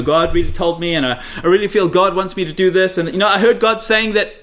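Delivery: a light mock of pious super-spiritual talk; mild mock of churchy feeling talk; pious talk parody. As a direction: lightly imitate them. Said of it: "they talk like this".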